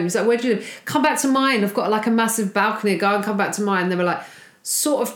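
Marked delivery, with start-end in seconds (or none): 0.3-3.8 put-on drunk guy. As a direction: lightly act out the drunk's come-on. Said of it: "Very drunk".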